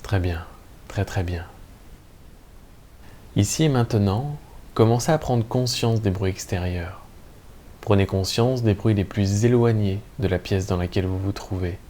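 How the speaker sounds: calm, measured Yoga Nidra guidance with long pauses; guided meditation. Acted. Teacher guiding listeners lying in Shavasana into lucid sleep, calm meditation voice. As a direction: lead listeners gently into rest, leaving room between phrases.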